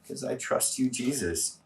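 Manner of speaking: quiet whispered-toward devotion; soft response. Shown as a demonstration. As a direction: drop to a soft, intimate response. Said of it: "I'm gonna say".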